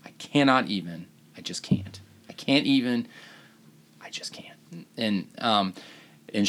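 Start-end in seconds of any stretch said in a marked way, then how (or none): 0.0-4.6 mock exasperated half whisper, overly dramatic. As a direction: play it up as sarcastic, facetious despair. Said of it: "I was being overly dramatic".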